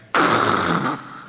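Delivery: mouth-made rumbling crash; big rolling noise made with the mouth; imitated loud noise. Shown as a demonstration. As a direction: imitate a huge rattling clatter. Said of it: "in God's ears that little two mites was like".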